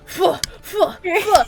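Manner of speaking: imitated flapping bat. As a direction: imitate a bat flung through the air. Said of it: "you see it going".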